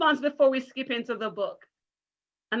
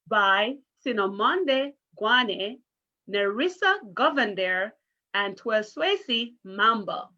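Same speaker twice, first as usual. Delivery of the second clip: careful name reading; slower than usual. Shown as a demonstration. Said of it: "make a sincere effort to say their name".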